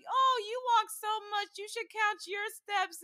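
high-pitched retold advice; imitated chirpy coworkers. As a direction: mimic coworkers through an excited mom's voice. Mom quotes her coworkers, excitedly.

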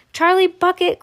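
high, loud call; excited cry. A narrator's reading. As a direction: call the child out by name. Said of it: "cried Mister Wonka".

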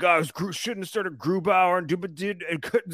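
lightly whiny mutant-voiced complainer; mock the griping fans with a mutant voice. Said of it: "that's, like, my mutant voice for these people".

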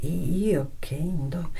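confused whisper. Acted. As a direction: trail off in a whisper. Moglie spiazzata. (sussurrando confusa)

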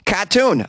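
Cartoon said the Boston way, no r, kah-toon. Shown as a demonstration. Podcaster showing listeners a Boston word, Cartoon without the r. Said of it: "another great word to say with a Boston accent".

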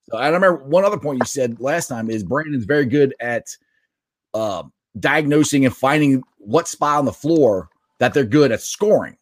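choppy, garbled connection; words breaking up like underwater gargling; call dropping out. Real, not acted. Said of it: "sounds like you're underwater gargling".

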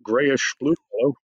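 lightly voiced wife announcing a visitor; imagined oblivious wife. Wife without her glasses announcing a visitor to her husband, lightly voiced. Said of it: "so she'll be like".

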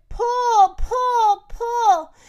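high, loud calls to pull; urgent heave. Acted. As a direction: urge them on with each heave. Urging animals to pull.

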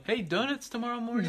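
high, laughing call across camp; laughing yell. Retold or imitated. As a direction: call it out cheerfully, mid-laugh. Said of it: "when I yelled".

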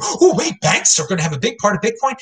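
viewers' disbelieving gasp, pitch jumping high; mock surprise. Mocking viewers who just learned about banks, in fake surprise. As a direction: play the shocked viewer, overdone. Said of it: "some of you saying".

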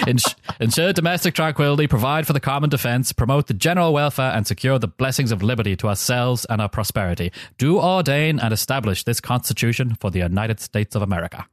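oratorical attempt at Virginian accent. Shown as a demonstration. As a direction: recite in a put-on Virginian accent. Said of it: "my best, um, Virginian accent".

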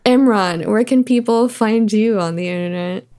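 asking with a smile in the voice; audible smile. Real, not acted. Host asking a guest for their handle, audibly smiling. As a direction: let a suppressed smile colour the question. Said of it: "I can hear you smiling in your voice".

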